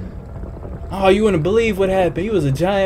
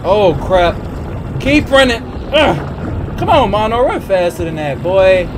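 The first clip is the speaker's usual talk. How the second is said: being chased; 3 semitones higher than usual. Real, not acted.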